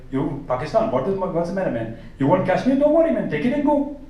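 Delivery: a lightly voiced, easygoing comic; Russell Peters impression. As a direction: play it like a laid-back comic solving Kashmir. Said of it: "someone like Russell Peters ... like".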